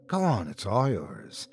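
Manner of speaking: pleasant. A narrator's reading. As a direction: offer it kindly, softly. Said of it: "he said pleasantly".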